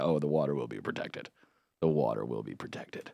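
low, hushed vow; soft, deep-pitched deadpan reassurance; mock-solemn assurance. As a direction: drop it low and quiet, like a grave promise. Mock-solemn reassurance under a look.

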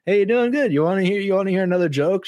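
high, quick imitation of a friendly lady; lightly voiced chatty chaplain; cool Irish chaplain. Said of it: "just, like, a cool lady".

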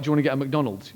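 understated, everyday offer; imitating a matter-of-fact question; calm, casual. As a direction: say it as if it were nothing special. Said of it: "he just says it very calmly".

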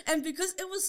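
giggling through the words; laughing while talking. Real, not acted. Laughing through the funny story.

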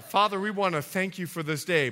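low, measured public prayer; mock prayer out loud. Shown as a demonstration. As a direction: pray like leading the church. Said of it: "So this is my prayer out loud".

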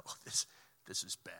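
low, whispery sinking realization; hushed dread. Acted. Consultant hit by the gut punch, hushed dismay. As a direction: let it sink out in a low near-whisper.

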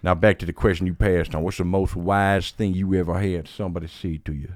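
lightly imitated game-show host; Steve Harvey. Host returning to a passed question, light Steve Harvey impression. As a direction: put on a hint of the famous host's voice. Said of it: "don't have to sound like Steve Harvey".

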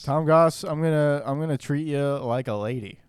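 lightly voiced wrestler trash talk; wrestling promo. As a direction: cut a promo at your rival. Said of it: "Do a promo right now".

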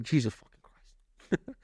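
slow, hushed mock awe; awestruck. Husband stops eating, amazed by the meal, awestruck.

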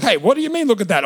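loud, high retort of disbelief; mock indignant reaction. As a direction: imitate a friend taken aback, loudly. Friends react to shown finger.

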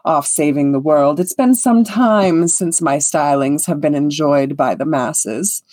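lightly voiced vain performer; self-important bard. Conceited bard agreeing to perform with the elf, lightly grand. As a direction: bestow a treat on your adoring public. Moss accepts invitation to perform.

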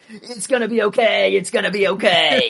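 high, loud squeaky little alien; mimicking Babu Frick's high squeaky cheer. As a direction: chirp it like a tiny excited creature.

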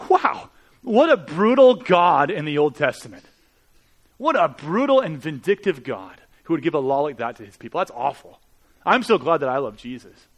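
mock critic. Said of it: "They say".

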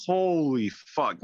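slow, drawn-out retold amazement; stunned disbelief. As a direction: stretch it out as if floored. Retold stunned reaction to being high.

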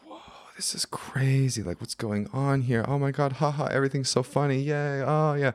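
high-pitched giddy tripping babble; loopy. Retold or imitated. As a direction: act out being gleefully loopy on a trip. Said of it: "it was so loopy".

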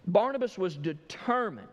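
"determined" with a hard-hit middle syllable; preacher's emphatic "determined"; stress on determined. Real, not acted. Preacher repeats word to underline.

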